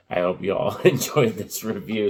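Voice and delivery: loud, with the pitch breaking upward; real voice crack. Real, not acted. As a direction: let the voice crack mid-sentence, with a laugh. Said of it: "Sorry, I just noticed my voice".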